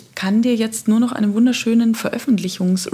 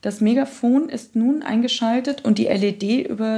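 manual read-out. Shown as a demonstration.

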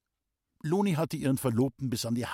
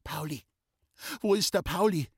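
frantic cry; 6 semitones higher than usual. A narrator's reading. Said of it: "wie eine Irrsinnige".

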